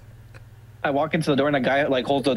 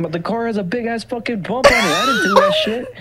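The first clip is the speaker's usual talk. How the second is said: heated argument; 8 semitones higher, 3 dB louder than usual. Retold or imitated. Guy arguing with girlfriend.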